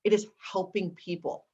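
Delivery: lightly imitated elder, deliberate and solemn; Maya Angelou. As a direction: hand down a life's calling, word by word. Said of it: "And with that voice".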